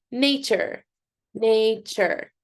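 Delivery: NATURE in two measured beats, said twice; syllable by syllable. Shown as a demonstration. Teacher leading the clapping practice, Nature syllable by syllable. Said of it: "Let's do it together".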